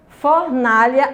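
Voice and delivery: "Fornalha" slowly, weight on na; slow teacher's demo of "Fornalha", stressed on na. Shown as a demonstration. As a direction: model "Fornalha", stretching the middle syllable na. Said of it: "a sílaba tônica na".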